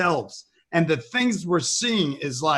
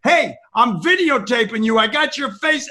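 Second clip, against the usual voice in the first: retold scream; 4 semitones higher, 3 dB louder than usual. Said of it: "screaming to them".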